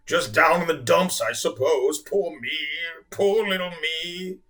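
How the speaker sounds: slow, moping whale; self-pitying. Acted. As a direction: mope and wallow slowly.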